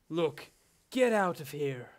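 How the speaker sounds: put-on old-style American accent posing as British, drawn out; fake British American accent. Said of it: "the fake, fake British, but actually American accent".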